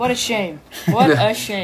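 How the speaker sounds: feigned regret at ordinary pitch; mock disappointment. Friend teasing about a script never filmed, mock disappointed. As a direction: act let down, tongue in cheek. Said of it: "I can tell you're really disappointed".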